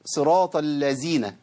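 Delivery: صراط الذين with ذ said as a plain z, drawn out slowly; slow demo of the mistaken z sound in الذين; wrong reading demo. Shown as a demonstration. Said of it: "في بعض الناس يقول لك إيه".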